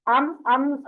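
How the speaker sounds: अम with a held nasal m; held mim. Shown as a demonstration. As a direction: keep the m humming. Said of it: "मीम को पकड़ के रखना".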